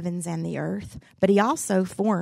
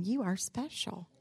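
tender affirmation; 4 semitones higher, 7 dB quieter than usual. Shown as a demonstration. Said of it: "Look at the person next to you and tell them".

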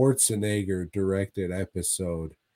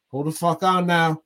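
mock landlord; 6 semitones higher, 3 dB louder than usual. Voicing landlord stopping the man.

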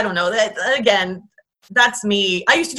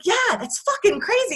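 mock amazed; 9 semitones higher, 4 dB quieter than usual. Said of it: "I was like".

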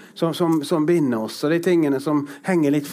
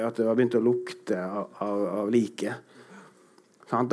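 ordinary talk

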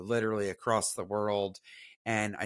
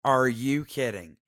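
incredulous; 5 dB louder than usual. Retold or imitated. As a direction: repeat it more deadpan. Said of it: "I said".

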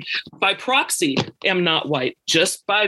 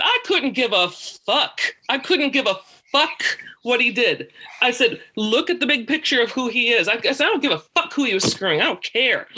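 mildly exasperated retold argument, higher pitch; heated dismissal; 5 semitones higher than usual. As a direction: re-enact fed-up defiance without shouting. Acts out angry argument with birth mother.

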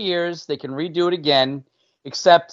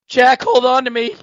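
dramatic movie line; 9 semitones higher, 7 dB louder than usual. Retold or imitated.

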